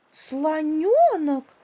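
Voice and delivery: high, loud, drawn-out astonished cry; the monkey amazed to find the elephant up the palm; surprised. Acted. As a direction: gasp out the name in disbelief. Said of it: "удивилась мартышка".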